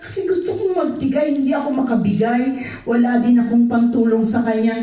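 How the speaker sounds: high, tearful plea, words rushing; tearful retelling. Retold or imitated. Telling the pastor how she cried, high and tearful. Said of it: "Yung puso ko umiiyak".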